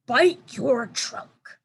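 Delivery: put-on slow, drawn-out child elephant voice; little elephant voice. A narrator's reading. Baby elephant Ruby teasing, slow and drawn-out. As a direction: stretch it out like a playful baby elephant.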